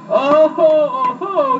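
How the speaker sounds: high, loud crowing laugh; gleeful cry. A narrator's reading. Gingerbread boy crowing at the mowers, high and gleeful. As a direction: crow with delight. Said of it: "he cried".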